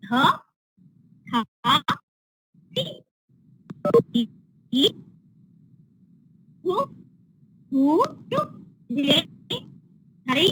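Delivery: th with a little added sound, chanted syllable by syllable; th, tha, thu said with a little extra sound; voiced th syllables. Shown as a demonstration. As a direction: add a touch of voice to th as you drill the row. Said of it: "Add little bit of sound and pronounce".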